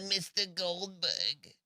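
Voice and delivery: mock Jewish accent on the surname; stereotyped Jewish accent. Host answers co-host's equivalent for Goldberg, mock Jewish accent. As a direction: put on a caricatured Jewish accent. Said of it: "that would be racist or whatever, uh, stereotypical".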